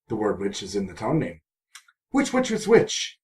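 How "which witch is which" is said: mock riddle. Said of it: "playful wordplay line".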